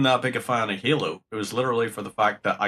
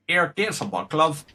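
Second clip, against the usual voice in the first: mock romantic Northern Irish; 7 semitones higher than usual. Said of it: "There's nothing more romantic than hear someone say".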